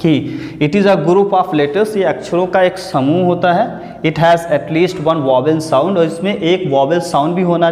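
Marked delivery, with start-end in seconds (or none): 0.0-2.0 slow, careful reading of the definition. Shown as a demonstration. Teacher rereading the definition slowly. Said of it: "vowel हमारा क्या होता है". 4.0-6.0 slow, careful reading of the definition. Shown as a demonstration. Teacher rereading the definition slowly. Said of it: "vowel हमारा क्या होता है".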